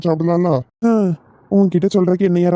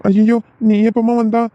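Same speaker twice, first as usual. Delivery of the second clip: startled; 5 semitones higher, slower than usual. Acted. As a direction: caught red-handed, blurting in shock. Caught out by wife arriving. (திடுக்கிட்ட குரலில்)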